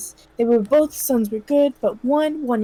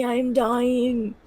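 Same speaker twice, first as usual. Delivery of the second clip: put-on dying old man; slower than usual. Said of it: "let me do the dying sound".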